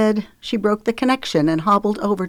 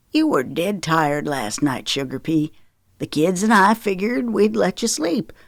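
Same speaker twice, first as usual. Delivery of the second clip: soft voice. Acted. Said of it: "his voice went soft".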